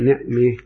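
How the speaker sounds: نعمة with the fatha leaning toward kasra, "ne'me"; نعمة with small imala; imala on ni'ma. Shown as a demonstration. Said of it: "ننطقها بين الفتحة والكسرة".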